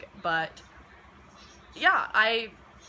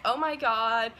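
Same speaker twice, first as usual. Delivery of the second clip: freaking out; 3 semitones higher, 5 dB louder, slower than usual. Retold or imitated. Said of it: "start freaking out".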